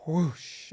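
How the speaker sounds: drawn-out rushing whoosh sound; whooshing sound effect; imitated whoosh. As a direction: voice the word like a rush of energy. Imitates rush of energy.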